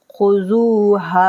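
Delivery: slow recited word; Quran recitation. Shown as a demonstration. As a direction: chant the word slowly. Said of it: "teacher recites word slowly".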